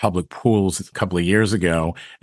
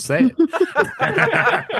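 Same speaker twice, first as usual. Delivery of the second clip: laughing. Real, not acted. Defiant joke then laugh.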